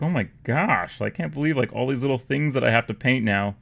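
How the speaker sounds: acted-out "can't believe it" reaction; mock disbelief. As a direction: play up being overwhelmed by the detail. Imagined reaction to fiddly details.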